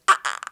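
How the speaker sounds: short, loud squeals; imitated high squeal. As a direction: attempt a pig-like squeal. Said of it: "I can't go that high pitched anymore".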